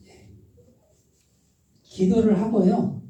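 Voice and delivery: ordinary delivery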